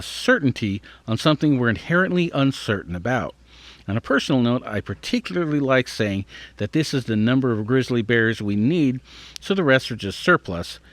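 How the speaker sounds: measured, slightly lifted read-aloud voice; careful article read. Acted. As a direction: read out a science article, clearly phrased.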